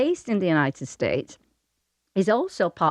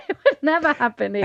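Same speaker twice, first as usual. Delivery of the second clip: high, laughing through the words; 6 semitones higher than usual. Real, not acted. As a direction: laugh it out in disbelief. Repeats it, laughing harder.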